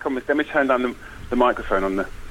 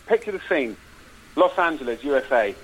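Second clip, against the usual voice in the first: measured trailer-style storytelling; film pitch narration. Acted. Pitching a cop film to the hosts, dramatic narration. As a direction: set the scene in dramatic phrases.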